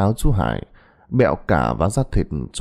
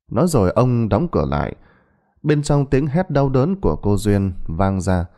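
ordinary delivery

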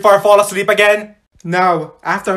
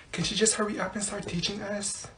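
very soft impatient aside; hushed complaint; 16 dB quieter than usual. Acted. Student to classmate about the teacher, hushed impatient complaint. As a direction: grumble it so the teacher can't hear.

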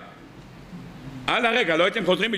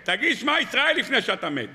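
higher, urgent calling out to a comrade; religious soldier urging dying friend, raised call; retold urgent shout; 5 semitones higher than usual. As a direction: plead with him to say the prayer. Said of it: "צעק לו".

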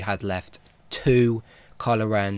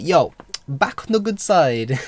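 higher and louder, a hammed-up cheery quote; mock Kylo cheer; 7 semitones higher, 6 dB louder than usual. Fan acting out Kylo tossing his saber, hammed-up cheery voice. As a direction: play the turned hero as a playful bro.

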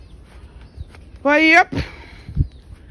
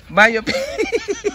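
high scolding. Real, not acted. Scolding the little dog.

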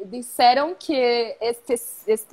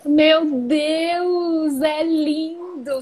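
excited; 3 semitones higher, much slower than usual. Real, not acted. Admiring the origami papers.

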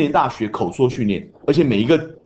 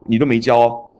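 mock student whine. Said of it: "你不要跟老师说".

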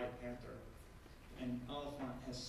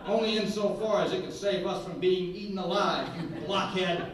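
laughing retort; 6 semitones higher, 15 dB louder than usual. Acted.

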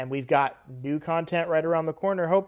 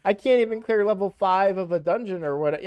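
higher, louder mock disbelief with a laugh; incredulous newbie; 5 semitones higher, 6 dB louder than usual. New player shown all the bosses, mock incredulous. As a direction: blurt it out in exaggerated bafflement.

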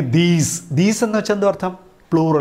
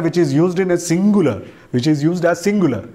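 slow dictation; much slower than usual. Shown as a demonstration. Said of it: "one എന്ന് പറയുന്നത് ഒരു pronoun ആണ്".

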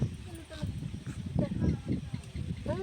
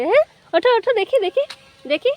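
high, loud eager coaxing; excited urging; 7 semitones higher, 5 dB louder, faster than usual. Real, not acted. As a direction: cheer the pet up onto its feet. Urging pet to get up. (উঁচু গলায় উৎসাহ দিয়ে)

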